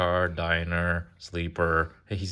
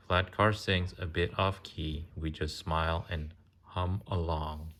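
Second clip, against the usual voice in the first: sing-song picture book reading; reading to children. Acted. Parent reading a train picture book to a child, sing-song. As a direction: read the rhyme gently to a little one.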